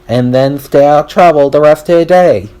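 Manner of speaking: ordinary delivery, nothing marked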